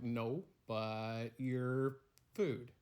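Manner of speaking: slow, drawn-out security agent voice; deadpan TSA agent. Acted. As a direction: stretch every word like a bored guard. TSA agent insists to sandwich.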